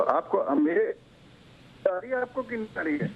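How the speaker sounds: choppy breaking-up phone line; words drop out over a bad line; voice cutting out. Real, not acted. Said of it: "आपकी आवाज cut रही है".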